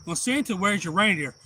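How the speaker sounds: high imitated kid question; child asking Santa. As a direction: pipe up like a curious child.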